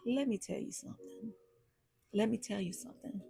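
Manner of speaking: quick, tight comic impression; Bernie Mac. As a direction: rattle off a warning like the comedian. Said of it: "In my full Bernie Mac voice".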